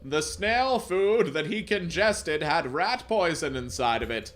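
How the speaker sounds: slow, put-on gloomy doctor voice; depressed doctor. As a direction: break bad news in a hammed-up glum voice. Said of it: "says in a depressed voice".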